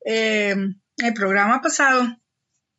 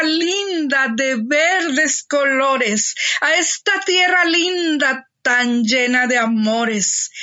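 grand poetry declamation. Acted. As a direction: declaim it like a proud hometown ode. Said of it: "a declamar para ustedes".

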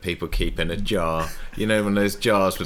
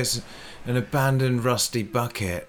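mock excitement; 5 semitones higher than usual. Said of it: "She gets so excited about a song".

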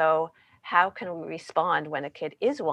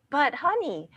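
higher pleading whine to spouse; whining; 7 semitones higher, slower than usual. Shown as a demonstration. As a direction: start begging the partner. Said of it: "Our voice goes up. We start to whine".

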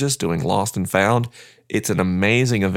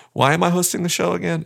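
laughing; 9 semitones higher, faster than usual. Real, not acted. Laughs at himself.

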